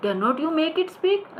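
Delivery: high, very slow theatrical line; hammed-up stage actor; dramatic stage delivery. Shown as a demonstration. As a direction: declaim it like an old actor. Teacher acts play line.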